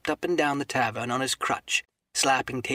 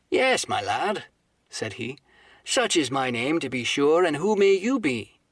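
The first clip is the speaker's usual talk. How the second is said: a hint of a hearty old sailor; friendly innkeeper; 2 semitones higher, 4 dB louder, slower than usual. Innkeeper Silver greets the new cabin boy, heartily. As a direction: greet the lad with bluff cheer.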